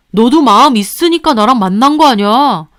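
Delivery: lightly voiced husband, wounded; hurt husband. Husband reproaches the mistress, hurt. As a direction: protest that he gave up everything.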